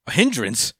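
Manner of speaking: high, incredulous retold sputter; mock vexed disbelief. Code reacting to being called a hindrance, mock incredulous. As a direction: rise into baffled, offended protest, laughing partway. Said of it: "He is so vexed".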